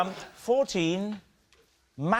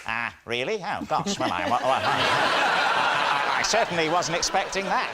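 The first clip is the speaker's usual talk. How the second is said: flustered caller; 3 semitones lower than usual. Pretend. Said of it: "at the other end, you'd hear".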